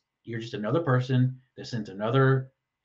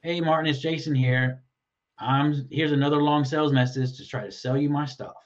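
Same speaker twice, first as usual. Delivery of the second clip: salesy read. Shown as a demonstration. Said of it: "the tone of voice you read it in is".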